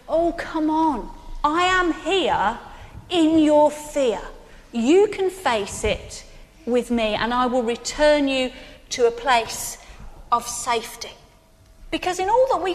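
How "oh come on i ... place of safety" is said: reassuring Jesus. Retold or imitated. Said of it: "he holds out his hand and he says".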